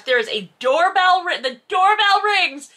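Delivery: high, loud gasp of news; breathless plot twist reveal; excited announcement. Real, not acted. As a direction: announce it like a cliffhanger.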